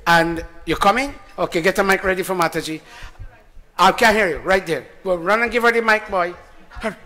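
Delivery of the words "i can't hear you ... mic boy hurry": calling out. Real, not acted. Calling across hall for mic.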